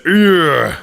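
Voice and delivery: short strained growl sound; a grunt-like growl from the neck; throat growl. Shown as a demonstration. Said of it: "part, it goes".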